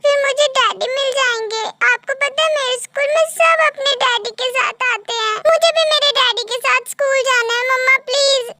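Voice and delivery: lightly voiced pleading child; a child's mild, earnest begging; pleading little daughter. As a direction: plead with mother like a little girl.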